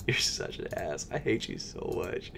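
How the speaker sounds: whispered insult. Real, not acted. Whispering insults at checkout site.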